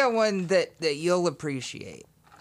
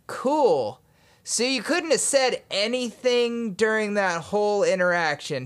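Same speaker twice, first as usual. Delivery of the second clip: sarcastic; 5 semitones higher than usual. Retold or imitated. Retorting to the Cisco engineer.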